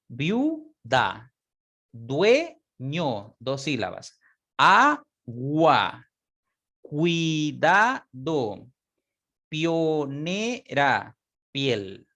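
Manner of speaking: Cuidado and Pionera dragged out very slowly; syllable demo. Shown as a demonstration. Teacher showing syllable division, slow. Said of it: "Cuando yo haga la separación silábica".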